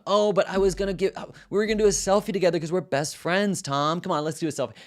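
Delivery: very high, loud, mock-hurt teen whine; whiny mock plea. Student mocking his teacher over the phone, very high fake whine. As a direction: whine like a wounded best friend, all put on.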